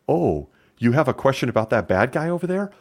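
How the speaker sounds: hammed-up witness dodging the question; mock innocent witness. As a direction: play dumb on the stand. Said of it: "gets on the stand and says".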